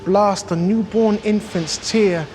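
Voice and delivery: measured, emphatic poetry reading; poem recitation. Acted. Hip-hop artist performing Blake's angry London poem, emphatic recitation. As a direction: recite it with punched key words and deliberate pauses.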